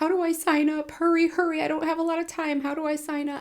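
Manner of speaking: high, sobbing, frantic put-on pleading. Recalling running into an admissions office in tears, acting out past sobbing. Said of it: "and I'm sobbing".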